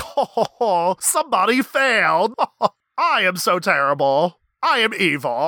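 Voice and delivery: lightly hammed-up cartoon villain gloating; a hint of an evil villain cackling over his plan; mustache twirling villain. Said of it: "mustache twirling villain where he's like".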